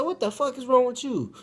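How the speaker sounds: loud, high-pitched outburst; exasperated shout. Retold or imitated. Teller replays his reaction to her screaming, exasperated shout. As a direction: yell at her in comic exasperation.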